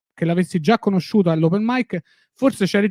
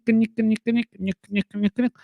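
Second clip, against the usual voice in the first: imitated pliers creak; 5 semitones higher, 3 dB quieter, slower than usual. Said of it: "tipo hanno fatto gnic".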